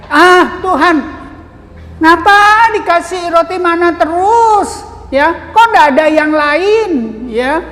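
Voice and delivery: a touch of petulant grumbling; mock grumbling. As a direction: play the sulky crowd complaining. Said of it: "mereka bersungut-sungut, mereka sangat marah".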